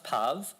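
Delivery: puv with a short vowel, like shove; rhymes with shove. Shown as a demonstration. Speaker offers teachers one possible reading, puv rhyming with shove. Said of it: "is it shove".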